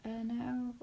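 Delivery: soft, faltering reenacted refusal; flatlined no. Asked to help in the kitchen, flatlined no. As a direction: let the no come out small and unwilling. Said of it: "I just flatlined".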